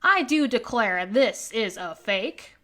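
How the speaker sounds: a hint of a sniffy town mayor doubting the fossil; pompous mayor. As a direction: declare it like a stuffy official. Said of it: "mayor type right here going".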